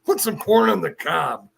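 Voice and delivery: prank the wife as Macho Man; hammed-up Macho Man impression; Macho Man prank call. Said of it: "I'd call up and I go".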